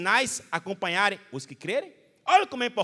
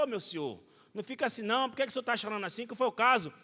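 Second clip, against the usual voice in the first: pregador consolando; 7 dB quieter, faster than usual. Retold or imitated. Pregador consola o pai chorando.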